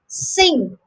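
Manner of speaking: crisp "sinkt" for Cinct; clear K sound. Shown as a demonstration. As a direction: sound the K before the final T in Cinct. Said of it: "With the K sound".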